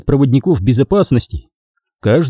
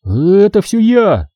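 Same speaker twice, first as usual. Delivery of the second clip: trembling voice; 9 semitones higher, slower than usual. A narrator's reading. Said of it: "дрожащий голос".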